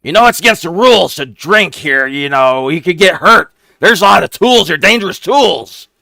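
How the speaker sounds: very high, loud goblin squeak; a small goblin sizing up strangers, shrill-pitched; squeaky goblin. Acted. GM voicing a goblin questioning the rogue's party, squeaky and high.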